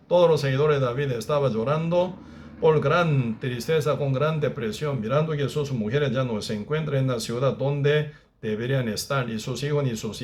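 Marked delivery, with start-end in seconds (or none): none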